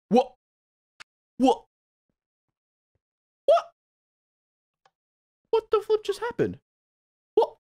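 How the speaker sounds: high, stunned question; shocked disbelief. Real, not acted. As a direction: gasp it out in shock. Game froze, shocked.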